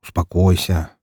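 steady someone who is worked up; calm, unhurried reply. A narrator's reading. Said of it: "Я же оказался спокойнее".

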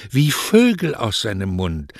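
"wie Vögel aus seinem Mund" starting high, then sinking; enraptured defence. Acted. Lovestruck daughter describes his words to mother, enraptured.

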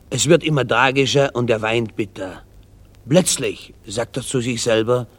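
ordinary talk, nothing marked

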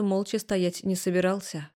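ordinary delivery, nothing marked

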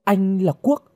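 high, shocked question; horrified. A narrator's reading. Girl seeing her rescuer unmasked, horrified. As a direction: rise sharply in stunned fright. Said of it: "run lên kinh hãi".

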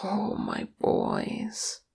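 soft, slow motherly murmur; tender. A narrator's reading. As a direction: breathe it out gently, drawn out. Mother grieving softly over sons.

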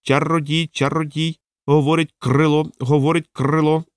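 lightly voiced parrot squawk. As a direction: repeat it like a parrot. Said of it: "сказав папуга".

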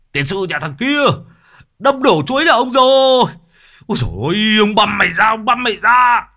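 high, loud, fast enraged yelling; furious shout. A narrator's reading. Orchard owner screams at Long for the wrecked bananas. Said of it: "nói như hét".

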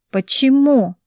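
ordinary delivery, nothing marked

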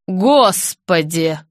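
slow, drawn-out horrified «Господи!»; gasping in shock. A narrator's reading. Director seeing the apron, a slow shocked gasp. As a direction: let the shock stretch the word. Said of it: "ахнула Роза".

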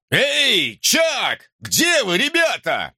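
high, searching call. A narrator's reading. Searcher looking for the boys, calling out.

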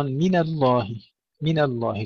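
"من الله" with thin nun moving into thick lam; thin out "من" before a full "الله"; light nun, heavy lam. Shown as a demonstration. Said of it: "ترقيق النون قبل الانتقال إلى تفخيم اللام".

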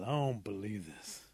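slow, sulky grumble; grumbling. Acted. Possum trudging off to the next town, grumbling. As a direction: grumble it to yourself, dragging the words. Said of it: "Possum's really grumbling".

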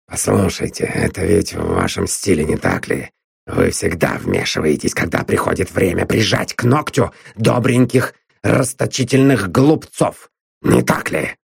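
a hint of a bullying man accusing her; lightly voiced sneering Drummond. A narrator's reading.

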